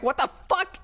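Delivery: high squeaky startled cat voice; imagined cat voice. Retold or imitated. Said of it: "this poor cat is like".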